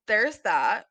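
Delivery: ordinary delivery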